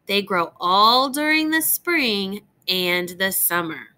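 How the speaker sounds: put-on bright, lilting read-aloud voice for young listeners; reading to children. Teacher reads a tree book to young students, gentle storytime reading.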